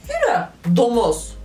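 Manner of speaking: laughing dismissal. Real, not acted.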